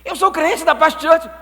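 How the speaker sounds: loud protest. Acted. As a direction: insist proudly and loud. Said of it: "believer protesting". (protesto alto e insistente)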